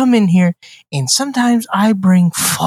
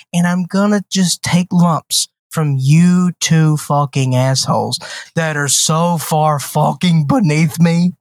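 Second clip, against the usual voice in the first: mock grandiose villain. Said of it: "can't even get through that in a straight face".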